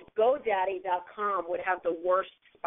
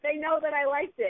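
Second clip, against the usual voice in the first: higher-pitched retold excitement; excited; 7 semitones higher than usual. Host retelling a brand favoriting the tweet, excited. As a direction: relive a fan's thrill, pitch lifted. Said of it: "I got so excited".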